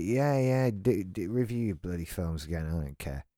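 bored, muttered brush-off; dismissive listener. Retold or imitated.

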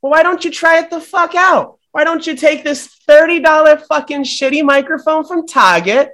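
hammed-up firing rant. Greg fires Hoagie in a rage.

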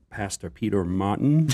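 Peter Martin in a put-on American accent; mock American pronunciation, drawn out; imitated American accent. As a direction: imitate an American saying the name. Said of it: "do an impression of your accent".

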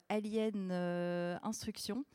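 title said in a self-mocking English accent. Shown as a demonstration. DJ announcing the track title in a mock English accent. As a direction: put on a slightly hammed English accent for the track name. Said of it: "avec mon super, euh, accent anglais".

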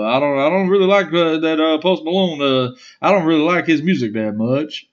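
a hint of a country brother; country accent. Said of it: "he has a country accent".

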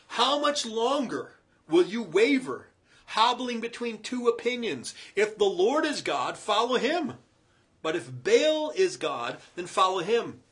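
loud, slow preaching challenge; forceful challenge. Acted. Elijah challenging the wavering people, loud and slow. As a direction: demand they choose a side.

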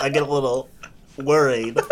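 put-on anxious traveler; fussy passenger voice. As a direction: play a nervous flyer. Acting out a gate lice passenger.

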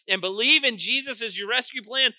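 forceful sermon delivery; emphatic preaching. Real, not acted.

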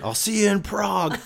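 high laughing imitation; laughing impression. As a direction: squeal it through a laugh. Acted movie line, very high, laughing.

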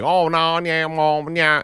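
high, garbled mock Southern twang; Southern accent. Host imitating his cousin in Texas, thick Southern accent. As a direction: ham up an unintelligible Southern drawl. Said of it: "to a Southern accent is".

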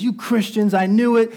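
mock an angry accusation without shouting; angry manager. Manager accuses the Christian group, mildly acted anger. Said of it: "he's extremely angry".

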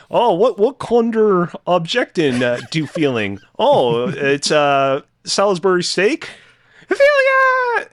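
mock German gibberish, high and loud; fake German. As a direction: ham up a fake German game show host. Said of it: "fake German".

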